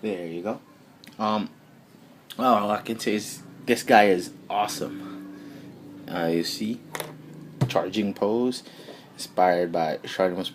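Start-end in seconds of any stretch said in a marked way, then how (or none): 0.0-6.8 talking around a cigarette; words through a lit cigarette; cigarette in mouth. Real, not acted. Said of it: "Let me light a cigarette first".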